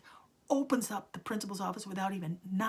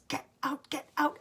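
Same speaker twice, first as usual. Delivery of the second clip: high, louder repeated order; retold shouting; 8 semitones higher, 6 dB louder than usual. Teacher banging the desk, shouting her out. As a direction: hammer the order twice. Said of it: "And he says".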